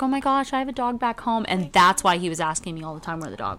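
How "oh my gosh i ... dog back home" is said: higher excited voice; imitating the neighbor. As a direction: gush about his own dog. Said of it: "he's like".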